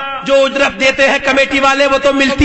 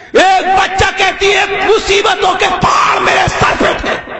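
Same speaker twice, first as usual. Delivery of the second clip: impassioned preaching; 3 semitones higher than usual. Real, not acted. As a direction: drive the sacred tale to a soaring climax. Preaches a story at full force. (پرجوش خطابت)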